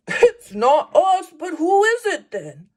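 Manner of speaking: high, quick puzzled question; puzzled animal voice. Acted. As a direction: ask it high and fast. Bear puzzles aloud.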